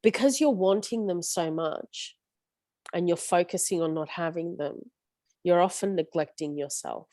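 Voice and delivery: talking round a lolly; words around a sweet in the mouth; mouth full. Real, not acted. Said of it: "I do have a lolly in my mouth".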